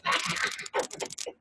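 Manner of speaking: a short airless choking laugh; choked-up laugh. Shown as a demonstration. Showing viewers how her laugh used to choke, choked laugh. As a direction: laugh that catches in the throat. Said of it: "like you're choking up".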